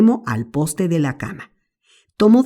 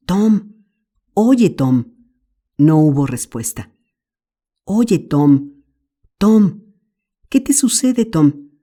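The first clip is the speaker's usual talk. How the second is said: put-on a lightly higher, anxious young brother; Sid, worried boy; 4 semitones higher, slower than usual. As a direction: call to your brother, worried. Sid voiced in the story. (Sid preocupado, voz algo más aguda)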